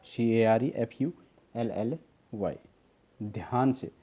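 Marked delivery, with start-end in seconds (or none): 0.0-2.6 teacher spelling out each letter of केयरफुली slowly; spelled out letters. Shown as a demonstration. Teacher spelling a word slowly for students. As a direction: spell केयरफुली slowly, one letter at a time: सी ए आर ई एफ़ यू एल एल वाई. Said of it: "listen केयरफुली".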